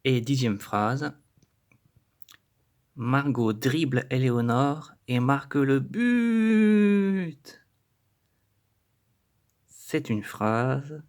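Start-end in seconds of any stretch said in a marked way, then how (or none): 2.9-7.6 slow, louder, rising to a cheer; excited commentary. Shown as a demonstration. Teacher announcing a goal like an excited sportscaster.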